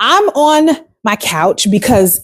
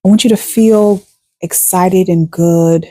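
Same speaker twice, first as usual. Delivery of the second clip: guided meditation. Acted. Coach guides listeners lying in bed after the alarm, guided meditation. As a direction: settle listeners into rest, letting each phrase hang.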